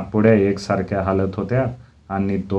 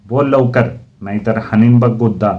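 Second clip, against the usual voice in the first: stern threat; 2 semitones higher, 5 dB louder than usual. Retold or imitated. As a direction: threaten a punch, sharp and loud. Teacher threatens a punch. (मास्तरांची दरडावणी)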